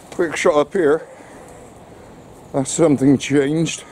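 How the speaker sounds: breathless after climbing; puffing from the hill; out of breath. Real, not acted. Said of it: "I'm out of breath climbing up that hill".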